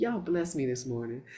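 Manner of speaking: subtle, very quiet, low murmur right in the ear. Speaker retelling how Greg quietly repeated the woman's words in the speaker's ear, imitating a subtle murmur. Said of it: "I hear him real subtle in my ear".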